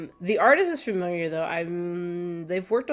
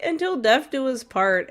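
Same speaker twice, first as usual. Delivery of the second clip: slow, high, dramatic vow; solemn vow; 5 semitones higher, 5 dB louder than usual. Retold or imitated. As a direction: declare it like a wedding oath. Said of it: "she's like".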